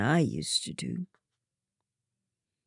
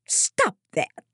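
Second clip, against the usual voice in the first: shouting back; 8 semitones higher, 6 dB louder than usual. A narrator's reading. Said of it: "Lydia shouts back".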